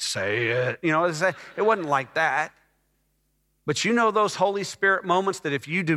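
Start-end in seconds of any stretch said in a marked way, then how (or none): 0.0-0.8 lower, booming voice of the Lord; audible voice of God. Shown as a demonstration. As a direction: say it as a voice from above. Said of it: "it wasn't like this audible voice".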